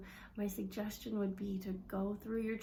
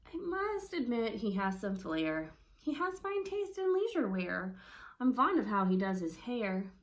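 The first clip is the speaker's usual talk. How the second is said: grudging compliment. Shown as a demonstration. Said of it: "so our voice is gonna change".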